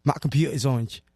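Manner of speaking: low attempt at a British accent; put-on British accent; imitated British accent. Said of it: "I can repeat it, like the sound".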